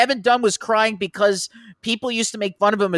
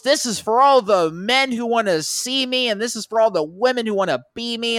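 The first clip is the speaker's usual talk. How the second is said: mock bad promo; 4 semitones higher than usual. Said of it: "she was so bad at doing promos".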